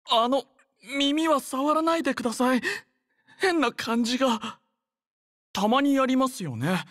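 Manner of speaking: high, flustered plea; flustered protest. Acted. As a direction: voice jumps up in embarrassed surprise. Flustered as ears get touched.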